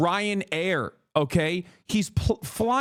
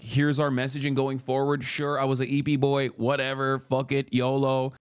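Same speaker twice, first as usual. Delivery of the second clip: mock candid Biden; 6 semitones lower than usual. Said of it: "tell them, like".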